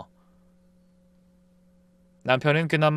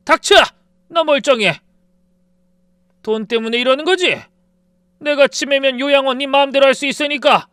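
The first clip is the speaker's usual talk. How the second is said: screaming, much higher and louder; old man screaming down his daughter-in-law; furious screaming; 11 semitones higher, 9 dB louder than usual. A narrator's reading. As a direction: scream it in blind rage. Father-in-law screaming accusations.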